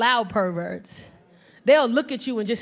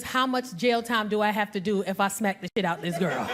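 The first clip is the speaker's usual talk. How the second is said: muttered fury; 6 semitones lower, 6 dB quieter than usual. Retold or imitated. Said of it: "it was".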